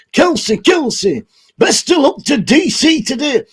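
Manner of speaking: a light put-on funny voice for the shout-outs. Vlogger reading shout-outs to viewers in a put-on voice. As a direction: read the names in a silly voice. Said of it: "let's do some shout-outs in this voice".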